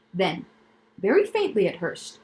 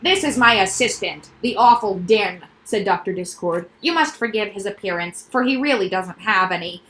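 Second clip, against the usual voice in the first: quack doctor voice. Acted. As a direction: pitch the noises like a proud specialist. Doctor character voice.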